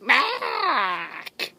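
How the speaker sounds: loud sudden command shout; sharp shout. Real, not acted. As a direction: bark it out to stop him. Shooing the animal away.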